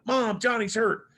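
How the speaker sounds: high, slow call down the hallway; calling for mom. Retold or imitated. Boy calls his mom about hurt friend, high slow call. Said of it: "I'm like".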